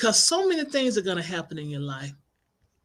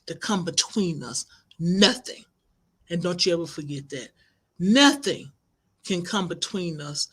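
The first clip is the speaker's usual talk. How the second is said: sincere vow. Retold or imitated. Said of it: "These were her words".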